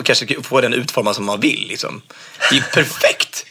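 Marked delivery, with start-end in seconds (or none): 2.4-3.5 much higher, gushing mock praise; mock enthusiasm. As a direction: oversell it like a sarcastic fan. Mocking the idea of robot dating. (hånfullt överentusiastisk, mycket ljusare)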